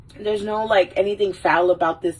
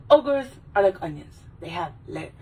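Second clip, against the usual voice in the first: lightly voiced Shrek; Shrek voice impersonation. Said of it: "And he's like".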